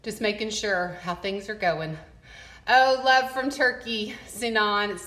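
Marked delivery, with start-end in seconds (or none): 2.7-4.9 bright, loud, delighted hello; excited greeting. Real, not acted. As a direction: call out a happy welcome. Greeting a viewer in chat.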